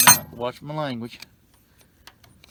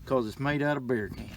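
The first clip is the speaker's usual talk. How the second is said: ranting. Real, not acted. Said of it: "And I'm ranting".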